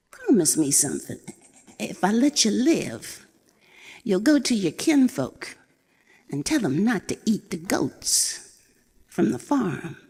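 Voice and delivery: high, bright put-on bluster; an old goat puffing up to scare a cat; scheming old goat. Old goat bluffing the wildcat about her birthday, high and boastful.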